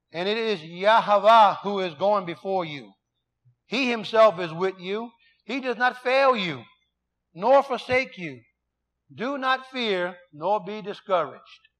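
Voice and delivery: slow, measured reading of "Do not fear"; scripture reading. Acted. Pastor reading Deuteronomy aloud to the congregation, slow and solemn. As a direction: read the verse slowly and deliberately.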